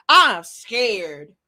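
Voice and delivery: laughing. Real, not acted. Vlogger joking to viewers that he fears Anton, laughing. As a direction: chuckle out the words. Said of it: "'cause I'm scared".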